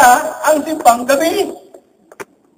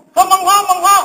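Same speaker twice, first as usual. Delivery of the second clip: amazed exclamation; 8 semitones higher than usual. Retold or imitated. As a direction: voice pitched high in wonder. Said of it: "Napataas yung tono ng boses niya". (mataas na tono, namamangha)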